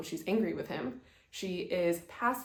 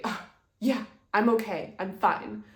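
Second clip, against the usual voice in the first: tense mock fine; 5 dB louder than usual. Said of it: "your words are saying something different than your demeanor".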